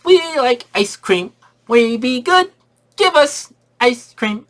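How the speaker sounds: put-on high, slow, dopey kid voice; mock dumb kids. Mocking the movie's kids, high dopey drone. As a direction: drag it out like a simple-minded child. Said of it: "It said".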